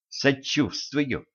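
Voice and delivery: slow, soft, gloating. Acted. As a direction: say it with spiteful glee. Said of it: "злорадно отозвалась Женька".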